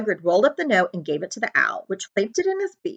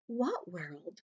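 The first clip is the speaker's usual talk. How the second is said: quiet puzzled; 16 dB quieter than usual. A narrator's reading. Harry puzzled, small voice.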